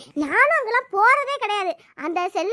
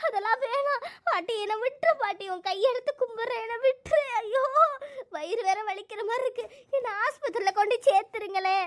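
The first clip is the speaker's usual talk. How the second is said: weak, soft frightened begging; tearful pleading; 4 dB quieter than usual. Acted. Labouring woman begging granny for hospital, tearful. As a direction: beg softly through pain and fear. Begs midwife not to cut her.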